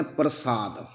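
ਪ੍ਰਸਾਦ with a plain s, no sh; correct, plain s. Shown as a demonstration. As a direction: say ਪ੍ਰਸਾਦ with a clean s sound. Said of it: "ਬਿਨਾਂ ਬਿੰਦੀ ਤੋਂ ਪੜ੍ਹਨਾ". (ਸਹੀ ਉਚਾਰਨ, ਬਿਨਾਂ ਬਿੰਦੀ ਪ੍ਰਸਾਦ)

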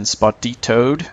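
"spotitoed" as mock Spanish, spot-ee-TOAD; "spotitoed" drawn out, ending on a rise; mock-Spanish word. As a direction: stretch out "spotitoed" slowly like fake Spanish. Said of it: "That is Spanish for being spotted".

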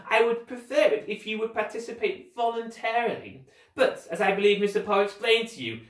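high, theatrical villain insistence; pompous, coercive guardian voice; commanding villain. Acted. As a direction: press the order with mock politeness.

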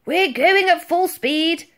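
loud, slow, high-pitched commander; blustering admiral. A narrator's reading. Admiral replies to the girl's warning, blustering. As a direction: boom it out slowly as the admiral. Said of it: "replied the Admiral".

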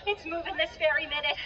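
terrified crying. Acted. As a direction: break down in fear as you say it. Terrified villager near tears.

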